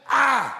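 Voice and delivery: "I" hit high and loud; forceful, isolated stress on "I"; emphatic I. Shown as a demonstration. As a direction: punch out "I" as one blow. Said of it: "It's emphatic".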